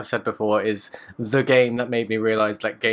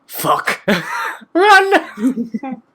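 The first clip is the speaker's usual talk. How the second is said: hushed curse bursting into a high shriek; panicked yell; 13 semitones higher, 7 dB louder than usual. Retold or imitated. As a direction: go from a breathy curse to a terrified scream. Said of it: "my first reaction when I saw Big Daddy".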